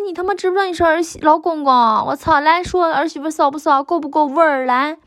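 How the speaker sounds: high-pitched retold cursing, quick at first; mock scolding. Speaker replaying how they cursed a partner, mock scolding. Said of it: "我就一边骂他".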